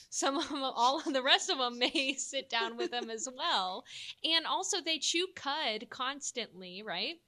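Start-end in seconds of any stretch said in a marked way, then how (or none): 0.1-3.8 put-on Texan cow accent. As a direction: slip into a Texas twang, half laughing. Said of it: "I guess that's my cow accent".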